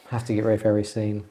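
fast, heavy breathing between words; hyperventilating. Real, not acted. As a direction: talk while panting hard. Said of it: "You're hyperventilating?".

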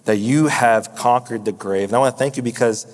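a pastor's sincere closing prayer, unhurried. Real, not acted. Pastor closing the sermon by praying to Jesus, sincere prayer.

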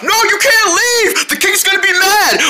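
high shouts after a runaway pet; calling after. Pretend. Kid calls the runaway seal to come back, shouting. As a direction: yell for him to come back.

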